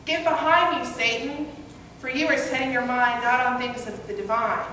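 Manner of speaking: retold angry yell of rebuke. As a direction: bark the rebuke at him. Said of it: "he yelled back".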